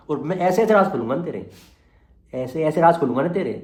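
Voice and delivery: loud, pressing threat, words hammered out; angry threat. Real, not acted. Vlogger threatens a rival he'll spill his secrets, loud angry threat. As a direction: warn him you'll spill everything.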